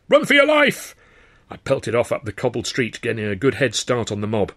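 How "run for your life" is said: very high, loud yell with "your" stressed; frantic yell. A narrator's reading. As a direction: scream it like your life depends on it. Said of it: "Sid yelled".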